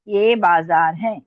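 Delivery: slow, drawn-out words; slow dictation. Real, not acted. Teacher repeating the heading for writers, slow dictation. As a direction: repeat it slowly for writing down. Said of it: "मैं dictate करूं".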